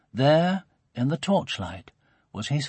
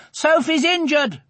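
put-on very high-pitched children's call; high, urgent child's shout; shouted alarm; 13 semitones higher than usual. A narrator's reading. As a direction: call out urgent news to a parent. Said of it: "they shouted".

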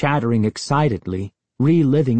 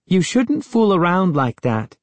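upset scolding; 8 semitones higher than usual. A narrator's reading. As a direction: scold him, scared and cross. Frightened girl scolds Gabe.

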